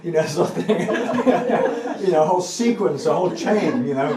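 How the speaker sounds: teacher laughing at long mantras. Real, not acted. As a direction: laugh while describing the jumble. Laughing at complicated chants.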